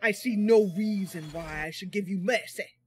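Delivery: put-on hammy accent between Detroit and Scotland; terrible muddled accent. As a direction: attempt a Scottish accent and miss badly. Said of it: "I don't know what accent that was".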